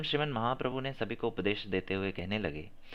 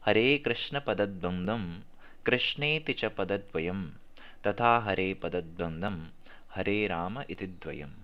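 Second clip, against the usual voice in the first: slow recitation; 3 semitones lower, slower than usual. Shown as a demonstration. Recites the verse slowly.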